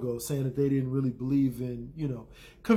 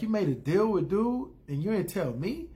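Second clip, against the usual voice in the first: higher-pitched imitated disbelief; mock indignant question; 5 semitones higher than usual. Jaime confronts Cersei over a secret deal, mock indignant. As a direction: retell it as an affronted challenge.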